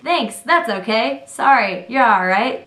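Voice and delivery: slow, rising Aussie-style replies; light mock Australian; Australian phrasing. Shown as a demonstration. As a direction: demo the casual Australian answers, slowly. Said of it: "they say, "You're all right".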